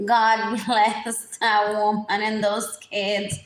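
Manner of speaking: loud gushing gossip voice. Retold or imitated. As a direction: gush like a nosy neighbor. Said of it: "So then they start like".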